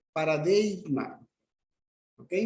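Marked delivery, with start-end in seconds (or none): 0.1-1.2 paradeigma said slowly, syllable by syllable; slow Greek word. Shown as a demonstration. Teacher to class: careful slow Greek pronunciation. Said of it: "palabra griega".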